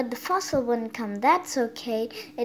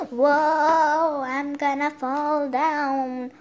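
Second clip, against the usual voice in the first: 1 loud whoa; 3 semitones higher, 5 dB louder, much slower than usual. Pretend. Toy dinosaur about to fall.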